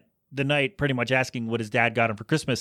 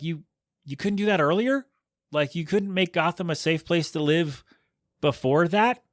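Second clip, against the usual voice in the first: incredulous complaint; 5 semitones higher than usual. Retold or imitated. Exasperated quote to Batman.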